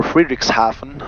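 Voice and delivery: Friedrichshafen said the English way; anglicised Friedrichshafen, as English speakers say it; English pronunciation. Shown as a demonstration. Pilot showing viewers how English people say the town, English pronunciation of Friedrichshafen. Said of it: "how the English people would say".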